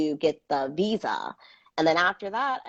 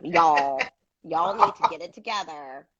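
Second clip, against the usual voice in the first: put-on Southern accent; 4 dB louder than usual. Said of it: "I don't sound country until I get upset".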